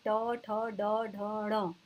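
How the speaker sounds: ट, ठ, ड, ढ, ण drawn out slowly with tongue curled up; slow teaching recital of retroflex ट, ठ, ड, ढ, ण; retroflex consonants demo. Shown as a demonstration. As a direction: sound out ट, ठ, ड, ढ, ण slowly, tongue bent back. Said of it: "जीभ के ऊपर से मुड़ती है जो".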